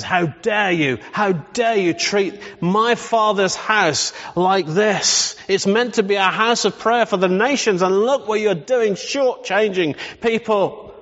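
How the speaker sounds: mock-angry rebuke, slow and rising; Jesus angry. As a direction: retell the temple rebuke with mild anger. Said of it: "He gets absolutely mad".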